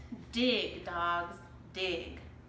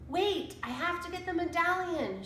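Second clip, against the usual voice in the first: put-on higher boy's urgent call; shouted; 8 semitones higher than usual. A narrator's reading. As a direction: call back to his sister. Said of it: "shouted Jack".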